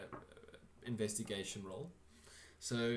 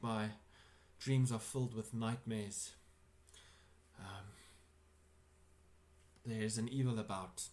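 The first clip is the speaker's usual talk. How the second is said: put-on English accent. An English-accented host begs the party to visit. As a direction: plead for help in an English accent. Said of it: "That accent was flawless".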